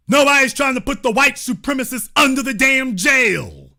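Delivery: angry shout. Real, not acted. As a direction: shout it out in anger. Angry rant peak.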